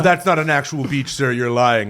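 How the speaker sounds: imitated Indian accent. Phone caller accusing the prankster of lying, in an imitated Indian accent. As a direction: protest in a put-on Indian accent. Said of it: "he had the heaviest Indian accent".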